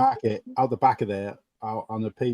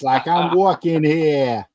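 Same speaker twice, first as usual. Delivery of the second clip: put-on New York accent; slower than usual. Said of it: "that's proper New York".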